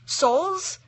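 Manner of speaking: high squeaky question; squeaked. A narrator's reading. Little girl squeaks to Death, high and startled. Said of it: "she squeaked".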